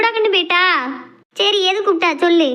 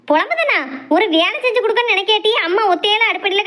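pitched up in outraged disbelief; indignant outrage; 3 semitones higher than usual. Acted. Mother snapping back at her daughter, outraged disbelief. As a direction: fire the question back, stung.

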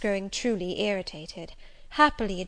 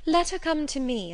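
pleading; 7 semitones higher than usual. A narrator's reading. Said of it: "I entreated".

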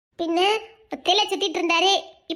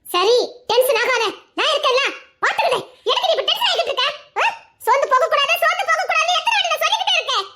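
mock pep talk; 8 semitones higher, faster than usual. Telling the friend not to lose heart, in a high laughing mock voice. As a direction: cheer her up in a high mock voice.

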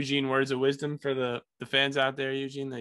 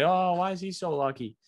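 mocking whiny voice; 6 semitones higher than usual. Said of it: "people say".

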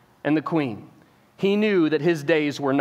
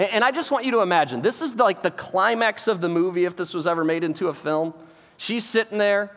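ordinary delivery

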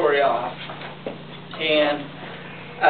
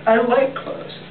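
Wilbur voice; 8 semitones higher, slower than usual. Acted. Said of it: "replied Wilbur".

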